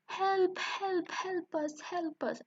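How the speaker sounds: high-pitched play-acted cries for help; scared cries. Purple guards frightened by animal noises, acting scared. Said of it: "they get scared and say".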